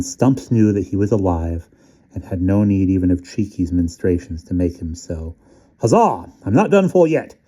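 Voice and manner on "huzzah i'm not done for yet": excited. Acted. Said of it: "he said to himself".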